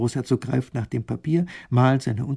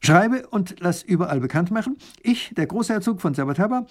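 royal decree; 9 semitones higher than usual. Acted. Grand duke dictating law to the scribe, proclaiming. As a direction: proclaim it like a herald.

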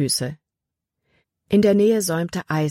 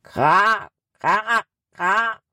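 a crow cawing back from far off in the forest; distant crow answer; 5 semitones higher, much slower than usual. Acted. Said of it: "Aus einiger Entfernung".

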